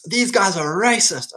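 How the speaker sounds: high, drawn-out mock outrage; mock indignation. Newcomer to Japan griping about the locals, mock indignant. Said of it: "I'm angry about their in-group preference".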